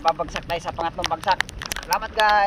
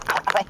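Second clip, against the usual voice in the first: pained ouch; 3 dB louder than usual. Real, not acted. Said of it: "ginunggol ako ng tilapia sa mukha".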